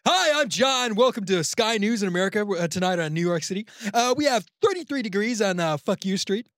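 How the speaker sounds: loud, high American newsreader; big hammy broadcast voice; cheesy American news anchor. Shown as a demonstration. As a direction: belt out the headlines like a cheesy anchor. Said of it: "news anchor, cheesy American".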